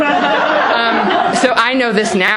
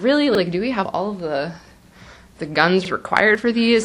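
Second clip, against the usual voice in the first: incredulous; 4 dB quieter than usual. Retold or imitated. Doubting uncle's bullet spree.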